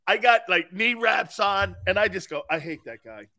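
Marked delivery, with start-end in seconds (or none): 2.5-3.3 muted exasperation. Retold or imitated. Own muttered reaction in the story.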